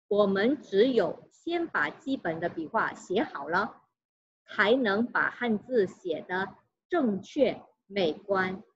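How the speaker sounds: slow, careful textbook reading aloud; Mandarin reading. Acted. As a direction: read the Mandarin text slowly for students. Reads Mandarin passage.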